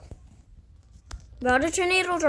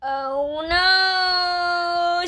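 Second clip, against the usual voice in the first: breathless shouting over wind; 4 semitones higher, 4 dB louder than usual. Real, not acted. Tornado hits player in game.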